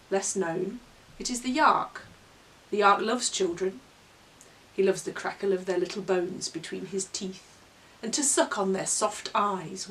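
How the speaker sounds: measured, relishing monster-tale reading; story narration. Acted. Presenter reads the opening of a monster book, story narration.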